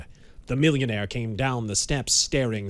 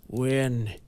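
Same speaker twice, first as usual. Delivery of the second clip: harsh rasp; 3 semitones higher, slower than usual. A narrator's reading. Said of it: "spoke harshly, in a hoarse, rasping voice".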